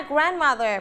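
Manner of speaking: "grandmother" with GRAND stressed; stress on first syllable. Shown as a demonstration. Teacher models grandmother after pupils repeat it, stress on GRAND in "grandmother". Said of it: "คำนี้เหมือนกัน ก็ stress ที่พยางค์".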